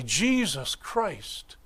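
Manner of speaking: slow, hushed "Jesus Christ" said as a prayer; reverent. Retold or imitated. Believers speaking the name, slow and reverent. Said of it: "same name, same syllables".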